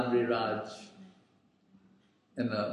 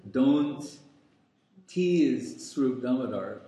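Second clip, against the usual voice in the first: a firm, louder warning to stop the teasing; stern warning; 3 dB louder than usual. Retold or imitated. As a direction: say it like a master reining someone in. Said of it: "warns him".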